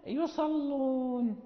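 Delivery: يصلون with a thin, light lam. Shown as a demonstration. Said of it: "لا نقول يصلون".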